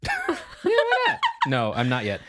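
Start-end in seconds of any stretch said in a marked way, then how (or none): 0.0-1.2 squeaky laughing repeat. Acted. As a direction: giggle it out high. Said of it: "repeated take".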